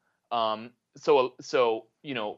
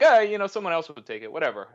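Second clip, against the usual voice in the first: higher, louder start, tossed-off ending; imitated couldn't-care-less dismissal; nonchalant Brooklynite; 5 semitones higher, 4 dB louder, faster than usual. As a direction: brush it off with a mock Brooklyn shrug. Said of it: "It's just so nonchalant".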